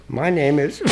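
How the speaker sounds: mock breakdown into a high wail; imitated crying. Newcomer asked to share at a meeting, imitated crying breakdown. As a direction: try to give your name, dissolve into high sobbing. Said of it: "I can't stop crying".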